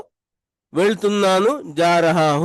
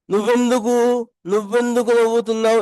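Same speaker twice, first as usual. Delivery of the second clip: higher and brisk, words run together; casual quick version; 5 semitones higher than usual. Shown as a demonstration. Teacher showing learners a casual way to ask. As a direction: toss the question off lightly and quickly. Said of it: "इस तरह भी बोल सकते हैं".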